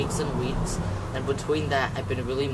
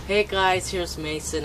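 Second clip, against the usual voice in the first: high, loud perky greeting; bubbly presenter voice; fake on-camera voice; 6 semitones higher, 4 dB louder than usual. Real, not acted. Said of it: "sorry if I go like this".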